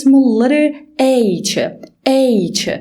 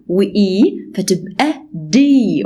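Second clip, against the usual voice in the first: slow D; 3 semitones lower, slower than usual. Shown as a demonstration. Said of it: "لونج فاول ساوند اسمه اي".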